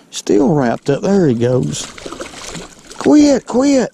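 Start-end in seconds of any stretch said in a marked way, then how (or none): 3.0-3.9 loud sharp quit; scolding shout. Real, not acted. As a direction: yell at the fish to stop. Scolding thrashing fish.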